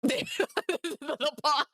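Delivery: giggly, high coo over a tiny paw; laughing coo at the cat. Real, not acted. To her cat on stream, a giggly high coo.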